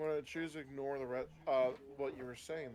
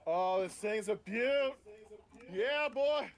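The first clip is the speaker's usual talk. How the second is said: put-on Australian accent; 7 semitones higher, 6 dB louder, slower than usual. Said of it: "wasn't a bad Australian accent".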